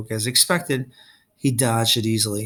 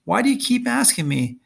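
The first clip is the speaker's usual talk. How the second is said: much higher, exasperated and strained; through gritted teeth; 10 semitones higher than usual. A narrator's reading. Luke pressed by Percy's questions, through gritted teeth. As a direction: force it out through clenched teeth. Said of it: "Luke gritted his teeth".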